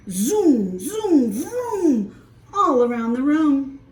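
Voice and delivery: playful truck zoom. Acted. Truck play noises.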